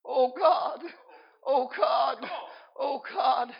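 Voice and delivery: mildly acted weeping plea to God; imitated crying. Wife overheard praying on the floor, acted crying. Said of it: "he heard someone crying".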